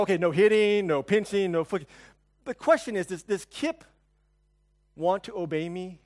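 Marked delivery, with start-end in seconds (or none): 0.0-1.9 louder, firm fatherly warning; stern dad scolding. Retold or imitated. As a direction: lay down the law to the kids.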